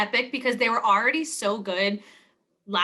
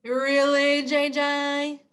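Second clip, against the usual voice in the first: incredulous; 3 semitones higher, much slower than usual. Retold or imitated. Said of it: "I was like".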